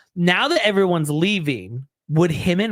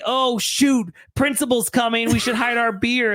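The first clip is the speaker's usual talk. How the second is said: mock teenager; 5 semitones higher than usual. Imitating aging partygoer acting like teenager.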